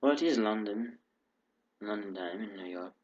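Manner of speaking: light put-on British accent throughout; a casual British accent, not fully committed. Real, not acted. Greeting his viewers in a put-on British accent. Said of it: "Don't know why I'm speaking in a British accent".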